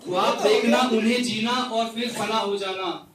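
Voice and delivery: measured, repeating recital of a poem; poetry recital. Acted. Poet reciting a rain poem to the gathering, measured recital. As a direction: recite each line twice, savouring it.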